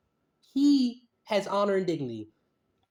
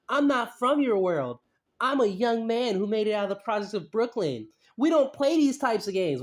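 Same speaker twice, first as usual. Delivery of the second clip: milder mock of a rapper. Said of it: "look how he's explaining".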